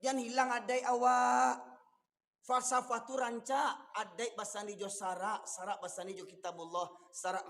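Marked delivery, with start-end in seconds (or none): 0.0-3.7 shouted out hard to the congregation; exhorting shout. Real, not acted. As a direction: cry it out as a warning. (seruan keras kepada jamaah)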